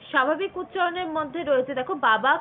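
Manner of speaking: normal talking voice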